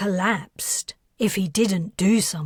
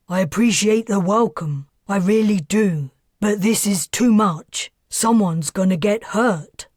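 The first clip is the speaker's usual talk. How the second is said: raised voice over a crowd; loud address; 6 dB louder than usual. Acted. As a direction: project loudly to a crowd.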